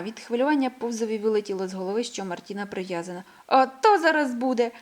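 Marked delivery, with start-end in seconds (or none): 3.5-4.7 excited. A narrator's reading. Excited promise before sledding.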